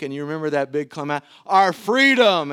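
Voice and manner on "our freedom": long drawn-out yell, louder; stretched victory yell to the army; yelled battle cry. Retold or imitated. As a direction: hold the word out like a war cry. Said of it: "and he yells and they all scream".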